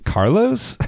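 high, puzzled squeak of a name; squeaky app voice. Retold or imitated. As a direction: pitch it way up like a confused app. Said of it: "It's like".

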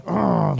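imitated groan of disgust; disgusted "ugh". Imitating people reacting to the name Jesus, disgusted groan. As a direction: groan "ugh" like someone recoiling. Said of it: "like this at you".

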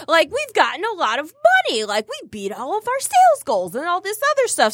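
hyped-up pep talk, pitch climbing; amping herself up. Acted. Woman psyching herself up before the reunion, amped up. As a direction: talk yourself up with rising bravado. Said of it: "amping myself up".

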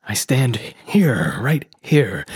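slow, whispery delivery; hushed villain. Acted. Smith recalls his vision, hushed and slow. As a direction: breathe it out slowly, dwelling on each phrase.

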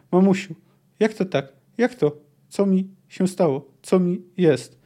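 a hint of a stunned, dying voice calling for his mother; dying man's bewildered plea. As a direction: ask it as a dying man who can't understand. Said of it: "powiedział nagle, całkiem wyraźnie i przytomnie".

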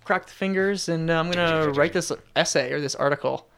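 a hint of a cheery professional; perky, businesslike writer voice; eager writer. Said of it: "they're like".

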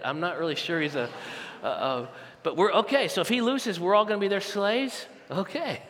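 a soft, skeptical mock grumble; doubtful grumbling crowd. Israelite soldiers doubting the boy David, a soft skeptical grumble. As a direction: mutter your doubts about the boy under your breath.

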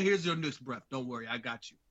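low, soft voice of a helpful chair; mock reassurance. Imagined chair comes to its owner's aid, mock soothing.

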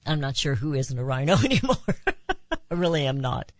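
ordinary delivery

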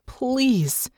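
a high, aching please; pleading. A narrator's reading. Natasha begging Irene not to hand her to Hansen, high and aching. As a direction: reach out to her with it.

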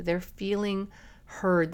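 normal talking voice

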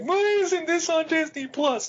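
high mocking whine; whiny fan voice. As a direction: mimic a complaining viewer. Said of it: "people at Disney Plus like".

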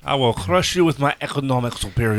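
fast, growling conqueror threat; barbarian. Pretend. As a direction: boast like a warlord. Mock threat after "Don's gonna crush you.

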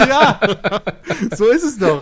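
high, loud, laughing burst; loud laughter. Real, not acted. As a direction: laugh it out loudly.

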